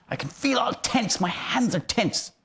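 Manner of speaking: high, strained mock tension; tense anger. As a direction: act tightly wound up. My teeth clenched.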